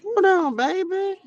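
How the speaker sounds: sudden high loud hold on; jolted, calling out in shock; startled. Real, not acted. Spiritual livestream host jolted by a viewer's comment, startled cry.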